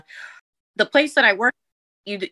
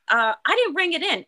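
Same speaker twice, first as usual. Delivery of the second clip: Jersey Jen temper; 9 semitones higher than usual. Retold or imitated. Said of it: "Jen went into, like, Jersey Jen".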